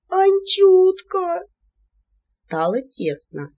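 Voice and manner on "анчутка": very high, loud, drawn-out wail; wailing yell. A narrator's reading. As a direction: wail his name with all your might. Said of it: "изо всех сил заголосила". (голосит изо всех сил)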